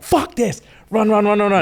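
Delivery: high-pitched fuck this, hammed up; mock outburst. Violet bolting from the professors in a mock high outburst. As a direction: squeal it as she storms out.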